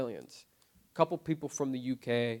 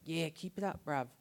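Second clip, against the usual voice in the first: high mock British "bruv"; British-tinged bloke; 6 semitones higher than usual. Stranger tells crying man to keep it up, mock British. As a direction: toss off an offhand encouragement. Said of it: "He's like".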